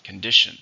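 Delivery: Condition, stressed on the middle syllable DI; second-syllable stress. Shown as a demonstration. Teacher models Condition for learners, stress on DI. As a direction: say Condition as con-DI-tion, punching DI. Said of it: "stress in the second".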